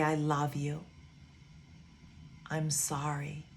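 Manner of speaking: gentle affirmation. Retold or imitated. Voicing students' mirror affirmations.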